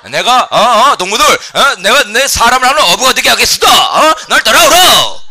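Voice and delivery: high, booming North Korean shout; rally the comrades loudly in North Korean dialect; North Korean accent. Shown as a demonstration. Preacher recasts the fishers-of-men verse for comrades, forceful North Korean accent. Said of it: "한번 북한 말로 해볼까요?".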